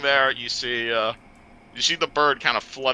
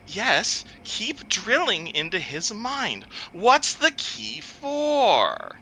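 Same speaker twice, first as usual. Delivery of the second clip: metallic voice filter; 10 semitones higher, much slower than usual. Acted. Metallic voice interrogates.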